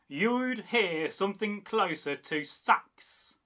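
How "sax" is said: "Sax" tight, with no stretching; tight, direct. Shown as a demonstration. Teacher showing Frisian speech, tight direct "Sax". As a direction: keep "Sax" short and direct. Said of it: "Very tight, very direct".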